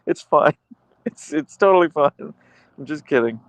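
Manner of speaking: high, sing-song fake modest voice; a coy pretend refusal, laughing at the end; mock polite refusal. Streamer mocking a viewer declining her thanks, coyly.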